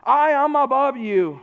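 arrogant quote. Retold or imitated. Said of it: "They're saying".

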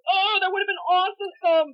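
slow, high mock gush; sarcastic gush. Teller mocks her late comeback in a slow, sarcastic gush. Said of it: "I was just like".

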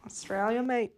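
playful mock Australian; Australian accent. Co-hosts riffing on fake Australians, Australian accent. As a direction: toss it off in Aussie slang. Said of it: "speak with an Australian accent".

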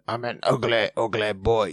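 put-on turns the English accent into a little goblin. Host showing his cohost how he voices TV characters, as a goblin. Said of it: "maybe he's like a goblin".

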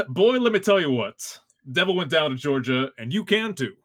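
folksy Southern drawl. Acted. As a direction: talk like a Southern good ol' boy. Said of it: "One of my easier voices".

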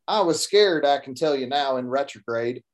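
a hint of a Texas cowboy narrator; Texas accent. Author reads his Texan hero's line in a Texas accent. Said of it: "So I do the little Texas accent for Stetson Jeff".

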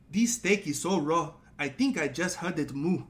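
put-on British celebrity chef; Gordon Ramsay. Shown as a demonstration. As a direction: critique it as an outraged British TV chef. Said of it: "this is my Gordon Ramsay".

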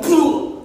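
loud, high imitated pop; loud mock engine backfire. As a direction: burst out the bike's bang. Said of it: "it went".

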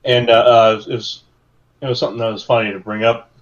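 talking through hiccups; hiccuping between words. Real, not acted. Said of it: "Sorry, hiccups".

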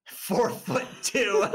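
reading a joke answer through a laugh; slow laugh-through answer. Real, not acted. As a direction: read it out slowly, cracking up.

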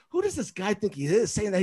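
retold complaint with a touch of outrage; fired up. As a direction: imitate an offended coach. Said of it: "he's still fired up".

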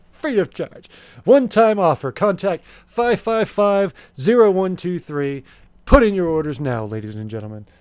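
loud, urgent infomercial call to order; home shopping host. Acted. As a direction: push the offer hard.

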